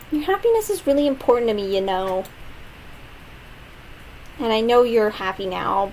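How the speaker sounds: a hint of a fretting childhood friend; lightly voiced worried girl. Voicing Sayori, game character.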